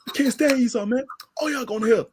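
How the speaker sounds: a hint of a gloating zealot; mock zealot. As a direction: sneer like a street preacher. Mocking zealot rant.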